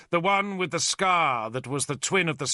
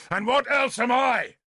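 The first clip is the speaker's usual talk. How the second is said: high, indignant shout; 10 semitones higher, 4 dB louder than usual. A narrator's reading. Arthur retorting to Merlin about his own birth, shouted. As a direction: fling the question back. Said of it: "Arthur shouted".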